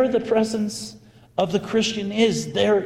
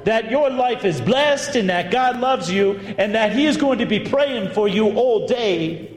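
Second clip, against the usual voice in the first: Southern drawl; 3 semitones higher than usual. Retold or imitated. Friend recounting the blessing to birthday woman, imitated Southern drawl. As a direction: play a Southern woman testifying, lightly drawled. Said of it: "in her thick Southern Louisville drawl".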